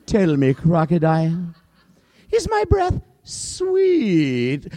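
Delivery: sing-song lion with a teasing rising question; lion's high mock-sweet question; lion king asking. Lion poses his riddle.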